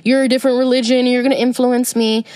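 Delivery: quick, snooty mock of a closed-minded believer; mocking quote. Mocking someone who shuns other religions, quick sneer. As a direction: sneer it out fast like a prude. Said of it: "or cross at people and like".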